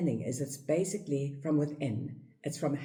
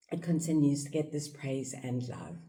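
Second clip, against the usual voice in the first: usual speaking voice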